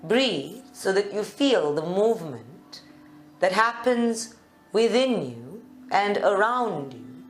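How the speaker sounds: calm meditation guide with long pauses; guided meditation. Real, not acted. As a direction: lead them gently into stillness, leaving space between phrases. Leads a seated meditation.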